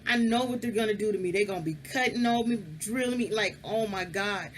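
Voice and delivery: high, laughing mock panic; squeaky high panicked quote with a laugh; retold panic. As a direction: replay your teenage terror half-laughing. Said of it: "So I'm like".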